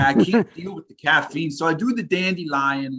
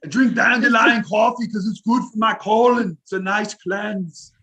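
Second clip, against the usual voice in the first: Arnold voice; 4 semitones higher than usual. Pretend. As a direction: bark it like an action hero. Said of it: "can you just be Arnold".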